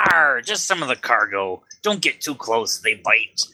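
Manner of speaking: lightly voiced pirate captain; a hint of a gruff pirate.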